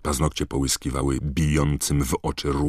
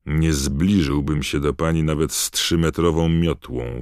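growled; 4 dB louder than usual. Acted. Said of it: "warknął Harry".

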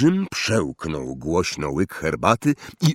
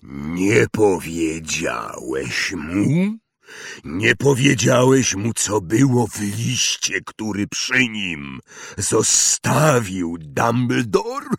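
trembling fury; slower than usual. Acted. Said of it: "każda sylaba drgała wściekłym gniewem".

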